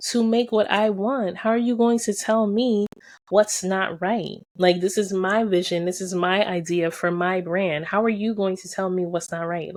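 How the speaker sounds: mock outrage at being corrected; indignant retort. To the supplier who said her idea was wrong, indignant. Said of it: "And it's like".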